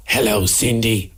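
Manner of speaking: low, slow mock hello; imitating the host. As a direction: mimic the host's drawn-out greeting. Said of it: "That's it".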